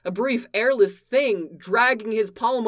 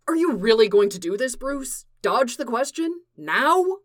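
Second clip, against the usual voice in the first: heated challenge; 5 semitones higher, 3 dB louder than usual. Acted. Clark confronting Bruce.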